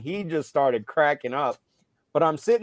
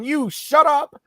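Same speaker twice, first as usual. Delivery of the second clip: raised, high-pitched coach's telling-off; retold scolding; 11 semitones higher, 5 dB louder, slower than usual. Coach to the player complaining after the play, mock scolding. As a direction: re-enact shutting a player up, louder and higher.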